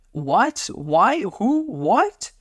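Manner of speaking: high, rapid-fire incredulous questions; shocked and dismayed. A narrator's reading. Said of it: "he said, shocked and dismayed".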